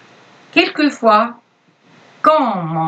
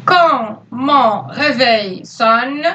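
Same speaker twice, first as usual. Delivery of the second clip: slow, spaced dictation of quand mon réveil sonne; every syllable of quand mon réveil sonne drawn out for writing; dictating; much slower than usual. Shown as a demonstration. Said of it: "Je répète la phrase".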